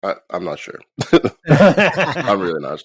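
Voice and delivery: groggy and hungover. Real, not acted. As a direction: speak like the morning after drinking. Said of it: "I'm also really fucking hungover".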